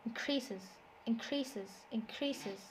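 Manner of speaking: "increases" stressed on CREA; stress on second syllable. Shown as a demonstration. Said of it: "the stress is on the second syllable".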